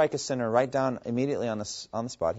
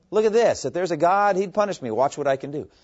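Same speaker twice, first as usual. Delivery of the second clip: mocking sinner daring God, much higher and louder; defiant taunt; 7 semitones higher, 7 dB louder than usual. Preacher voicing a scoffer, defiant and loud.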